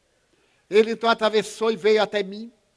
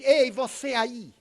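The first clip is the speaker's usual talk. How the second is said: higher, insistent questioning of a stranger; grumpy man again; 4 semitones higher than usual. Retold or imitated. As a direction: press him, half accusing. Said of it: "E ele novamente".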